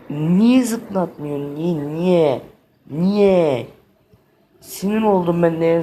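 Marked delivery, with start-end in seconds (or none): 0.1-3.7 rising gamer frustration; frustrated why. Real, not acted. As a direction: keep asking why, getting more fed up. Game keeps failing him, frustrated.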